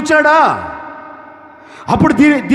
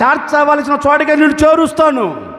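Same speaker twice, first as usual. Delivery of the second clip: proclaiming shout; 3 semitones higher than usual. Acted. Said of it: "అని".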